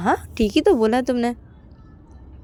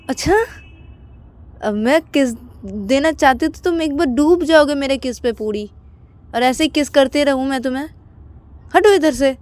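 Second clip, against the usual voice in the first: higher playful brush-off ending louder; teasing; 6 semitones higher, 3 dB louder than usual. Acted. Payal teasing Ananya then telling him to move. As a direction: tease him then push away.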